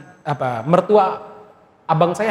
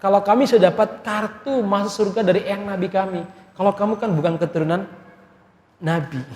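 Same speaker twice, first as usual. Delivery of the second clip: mocking in-laws; 4 semitones higher than usual. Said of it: "sering ngejek saya ngomong begini".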